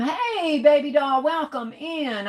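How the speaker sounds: light up as a friend walks in; sing-song welcome. Real, not acted. Greeting a viewer joining the live.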